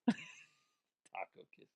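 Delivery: slow breathy whisper of Taco kisses. Shown as a demonstration. Host repeating the listener's sign-off in a slow whisper. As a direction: savour Taco kisses in a hush.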